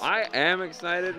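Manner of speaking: deadpan. Real, not acted. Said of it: "I just can't get it in my voice yet".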